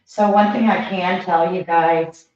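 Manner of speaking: hollow tube-like sound; talking from inside a tube; through a tube. Real, not acted. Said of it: "I sound like I'm in a tube".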